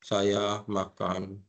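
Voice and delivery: very slow and drawn out; slow, over-mouthed sign-language speech. Shown as a demonstration. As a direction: spell "Saya makan." out word by word. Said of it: "nggak bisa".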